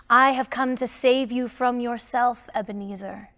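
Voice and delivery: lightly voiced solemn ghost; ghost crying out. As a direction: warn him like a grave spirit. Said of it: "the ghost cried".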